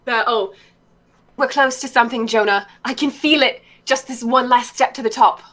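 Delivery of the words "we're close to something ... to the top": put-on slightly raised English-accented voice; Camilla's hybrid British accent. Showing a co-host a Camilla impersonation, hybrid British accent. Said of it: "impersonating Camilla for a while".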